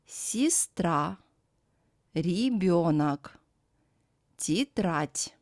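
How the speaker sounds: "Сестра, ребёнок, тетрадь" with first vowels as ee; careful word-by-word model: Сестра as sees-TRA, ребёнок as ree-BYO-nak, тетрадь as tee-TRAT'; unstressed Е as И. Shown as a demonstration. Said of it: "is pronounced as И".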